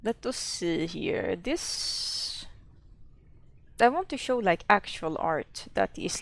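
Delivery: put-on Swedish accent, lightly done. Streamer showing viewers old art, fake Swedish accent. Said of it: "show it with a Swedish accent".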